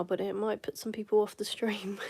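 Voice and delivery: hushed demo whisper; ASMR whisper. Shown as a demonstration. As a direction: whisper it gently, ASMR style. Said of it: "I could do a bit of A S M R as demonstration".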